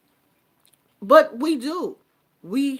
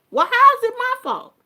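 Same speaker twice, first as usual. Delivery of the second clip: put-on high, loud and fast, a wronged child asking back; indignant protest; 13 semitones higher, 9 dB louder, faster than usual. Grown child snapping back at a parent, high and loud.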